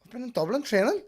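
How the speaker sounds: loud, high protest; shouting back. Retold or imitated. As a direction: yell the excuse back at him. Son shouting back at dad.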